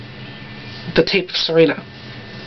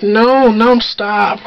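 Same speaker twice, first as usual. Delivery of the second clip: lightly imitated drunken protest; mock drunk; 3 dB louder, much slower than usual. Serena fending off her friend's boyfriend, mock drunk. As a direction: feebly fend someone off, as if drunk. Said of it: "like, really drunk".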